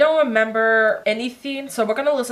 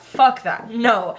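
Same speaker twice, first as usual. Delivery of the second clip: defiant refusal; 2 semitones higher, 4 dB louder, much slower than usual. Retold or imitated. Defiant retort to parents.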